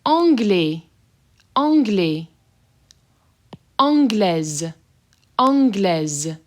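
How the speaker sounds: anglais ending open, anglaise ending in a clear Z; French pronunciation. Shown as a demonstration. Teacher showing the S said as Z, careful French. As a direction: contrast anglais and anglaise, buzzing the Z. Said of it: "the S is being pronounced as a Z".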